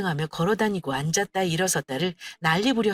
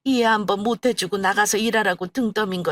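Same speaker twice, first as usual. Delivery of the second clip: tearful apology. Acted. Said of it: "울먹거리며 제게 용서를 구했습니다".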